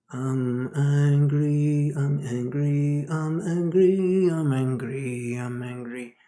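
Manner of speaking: repeated I'm angry, slow and pushed; a half-hearted angry chant; mock angry mantra. Shown as a demonstration. Teacher showing a bad mantra, mildly angry. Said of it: "but let's say".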